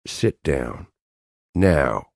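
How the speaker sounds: icy, flat command with menace; cold and deadly. Acted. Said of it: "in a cold and deadly voice".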